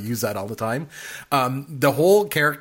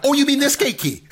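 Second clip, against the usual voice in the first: much higher, squeaky, with a laugh; meek gatekeeper; 13 semitones higher, 3 dB louder than usual. Retold or imitated. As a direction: squeak it out in sudden surrender. Quoting the frightened gatekeeper.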